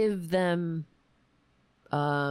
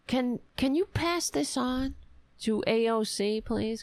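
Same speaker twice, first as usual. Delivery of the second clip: polite phone request; 5 semitones higher than usual. Retold or imitated. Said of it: "I call them and I say".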